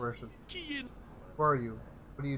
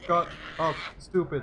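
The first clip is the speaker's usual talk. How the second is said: gamorrean shout; 3 semitones higher, 5 dB louder, slower than usual. Acted. Gamorrean yelling insult.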